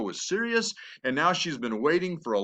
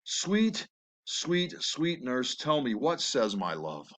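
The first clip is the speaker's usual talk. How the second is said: coaxing; 4 dB quieter, slower than usual. Acted. Juliet begs the nurse for Romeo's answer, coaxing.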